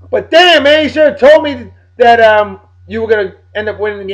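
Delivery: high, loud burst of mock outrage; exasperated outburst. Real, not acted. Ribbing his friend Bill over the comeback, exasperated outburst.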